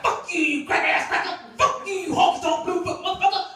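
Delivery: mock rant. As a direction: rant at each housemate, climbing up. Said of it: "He was like".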